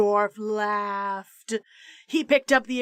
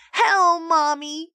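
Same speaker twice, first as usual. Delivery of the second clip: put-on bratty child greeting; 6 semitones higher, 5 dB louder, slower than usual. A narrator's reading. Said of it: "he said".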